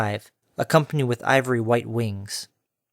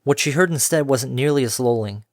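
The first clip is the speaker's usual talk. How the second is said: usual speaking voice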